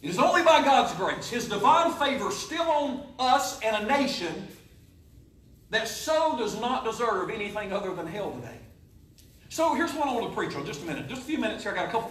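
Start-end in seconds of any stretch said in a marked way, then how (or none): 0.0-8.6 preaching. Acted. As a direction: preach it to the congregation. Preaching to congregation.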